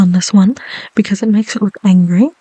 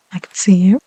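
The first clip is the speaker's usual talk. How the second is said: whisper. Real, not acted. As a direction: breathe the words gently. ASMR whisper.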